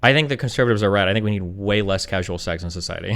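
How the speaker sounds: low, deadpan verdict; resigned deadpan. Real, not acted. Debater giving up on the argument, low resigned deadpan. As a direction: drop low and sound resigned.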